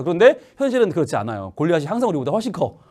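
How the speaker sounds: normal talking voice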